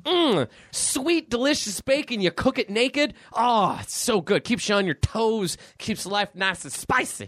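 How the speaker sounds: hammed-up zany radio host with sound effects; morning zoo DJ. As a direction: shout it like a wacky morning radio DJ. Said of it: "we are officially Morning Zoo Radio now".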